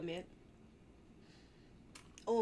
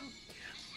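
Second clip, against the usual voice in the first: quiet, voiceless laugh; breathless laugh; 14 dB quieter than usual. Real, not acted. Gamer losing it over own mistake, silent laughing. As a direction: laugh till no voice is left.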